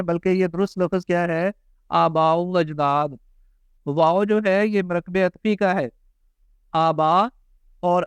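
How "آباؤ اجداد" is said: آباؤ اجداد slowly, aa-baa-o aj-daad; slow, link the "o" in آباؤ اجداد; linked without hamza. Shown as a demonstration. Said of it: "یہ حمزہ اس میں نہیں ہے". (آباؤ اجداد ٹھہر کر، واؤ ملا کر)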